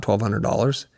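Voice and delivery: mock disbelief, rising at the end; as if the number were a joke; incredulous. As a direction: scoff at the small figure. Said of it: "That's embarrassing".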